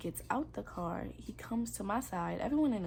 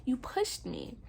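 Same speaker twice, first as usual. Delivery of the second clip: higher, indignant retold accusation; mad; 5 semitones higher than usual. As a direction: confront him, voice raised in replayed anger. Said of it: "I was still mad about that".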